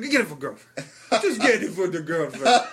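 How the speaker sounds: mock-Israeli accent, amused; Israeli salesman. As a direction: coax like an Israeli hawker. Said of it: "he is not native to this country".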